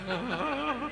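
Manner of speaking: high mock panicked "ah"; playacted panic yelp; mock panicked cry. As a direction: let out a comic, high-pitched cry of panic. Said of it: "getting more and more panic".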